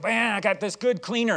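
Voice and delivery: lightly imitated eager salesman; excited salesman. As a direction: pitch it like a keen door-to-door seller, lightly. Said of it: "this guy was excited about cleaner".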